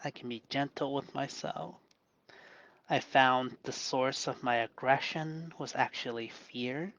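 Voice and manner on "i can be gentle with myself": gentle, hushed self-soothing; channeling Bob Ross. Real, not acted. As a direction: soothe yourself quietly, easing off. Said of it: "I'm gonna channel Bob Ross".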